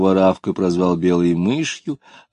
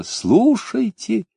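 calling out; 14 semitones higher, much slower than usual. A narrator's reading. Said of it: "крикнула в небо".

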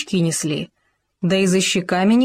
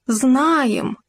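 pompous; 6 semitones higher than usual. Acted. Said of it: "важно сказал суслик".

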